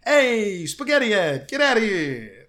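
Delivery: loud, high, drawn-out street call; heckling shout. Acted. Mimicking street hecklers taunting him, loud heckling shout. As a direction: yell it out like a heckler across the street.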